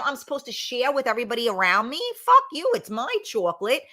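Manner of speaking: mock greedy retort. Mock refusal to share chocolate.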